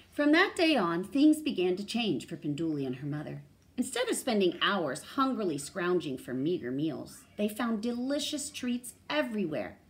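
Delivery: loud, lively storybook delivery; expressive read-aloud, projected; animated story reading. A narrator's reading. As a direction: read a character's line to children with big swings.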